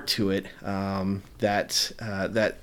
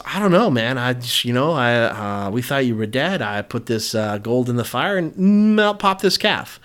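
sheepish Aaron; 4 dB louder than usual. Retold or imitated. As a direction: play Aaron caught out and scrambling. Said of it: "And Aaron goes".

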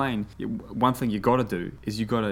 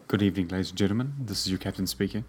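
pilot voice; 3 semitones lower than usual. Retold or imitated. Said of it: "how they practice that pilot voice".

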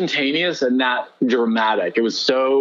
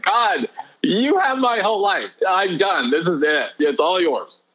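higher, urgent offer that settles as it goes; fervent surrender; 6 semitones higher than usual. Retold or imitated. Jumping out of bed and surrendering to God, fervent and high. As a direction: give your whole life away in one breath.

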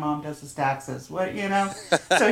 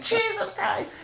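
retold exasperation. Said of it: "really lose my shit".

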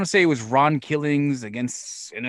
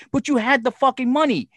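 exasperated scolding; 10 semitones higher than usual. Retold or imitated. Promoter retells calling Roddy, exasperated high scolding. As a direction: re-enact yelling at him down the phone.

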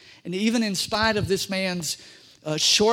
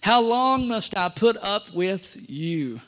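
slow, exasperated question; weary rebuke; slower than usual. Acted. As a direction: sigh it out, fed up. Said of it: "he said".

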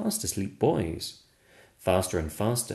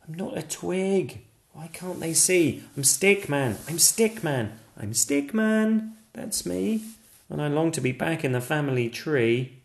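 higher, earnest little stick figure voice; protesting Stickman; 7 semitones higher than usual. Acted. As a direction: insist on who you are.

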